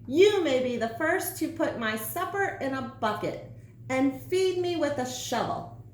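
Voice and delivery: lightly crowing, rising high on feed me; crowing sandwich. Acted. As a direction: gloat over the orders. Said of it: "she crowed".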